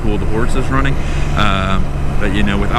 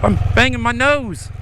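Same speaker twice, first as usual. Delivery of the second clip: mocking taunt; 12 semitones higher than usual. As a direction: taunt like a smug driver. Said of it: "He's probably laughing at me like".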